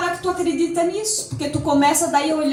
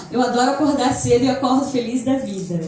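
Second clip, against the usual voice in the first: cheerful affirmation; 3 semitones lower than usual. Shown as a demonstration. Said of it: "comecei a dizer assim".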